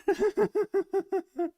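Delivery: long high giddy laugh; high giggle. Real, not acted. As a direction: giggle with disbelief. Laughing at price spike.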